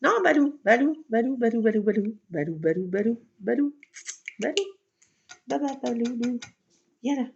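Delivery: loud repeated call of a name; calling the cat. Real, not acted. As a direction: keep calling the cat's name loudly.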